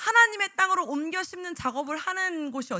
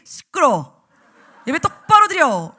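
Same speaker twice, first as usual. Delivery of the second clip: angry scold; 11 dB louder, slower than usual. Retold or imitated. Teacher snapping at kids.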